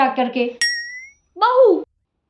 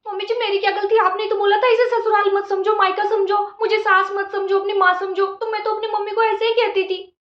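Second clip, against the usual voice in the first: higher, mock-innocent protesting; innocent bride voice; 4 semitones higher than usual. Daughter-in-law innocently throwing her words back at the mother-in-law. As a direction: play dumb and argue back sweetly.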